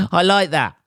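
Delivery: high, loud burst of self-approval; tickled delight. Real, not acted. Comic laughing at his own royal we, tickled delight.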